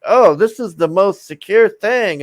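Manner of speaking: mocking the lady. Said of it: "that stupid lady on there that was just like".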